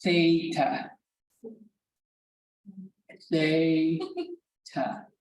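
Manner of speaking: "Theta" drawn out in two syllables, THAY-tah; slow pronunciation demo. Shown as a demonstration. Teacher answering how to pronounce the word, slow demo. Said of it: "How do you pronounce that word?".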